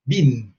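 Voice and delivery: been with a long ee, like poroto; long ee in been, British style. Shown as a demonstration. Teacher showing the British vowel to students. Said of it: "for the British, been".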